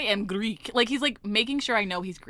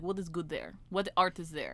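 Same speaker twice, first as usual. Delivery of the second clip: mock thick Russian accent, quieter; 3 semitones lower, 6 dB quieter than usual. Retelling a man's questions about her city, imitating thick Russian accent. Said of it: "a thick Russian accent".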